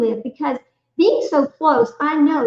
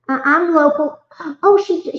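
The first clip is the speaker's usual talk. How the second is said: gasping, thrilled, a bit higher; excited gasp; 4 semitones higher, 5 dB louder than usual. Acted. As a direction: read it out like surprising news. Reading a viewer's chat comment.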